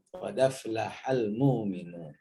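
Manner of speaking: "aflahal" joined to "qad" with no hamzah, "mu'minun" with a long vowel; dialect reading. Shown as a demonstration. Teacher showing one tribe's "Qad aflahal mu'minun". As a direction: read "Qad aflahal mu'minun" as "qadaflahal muuminun". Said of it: "hamzahnya dirubah menjadi mat".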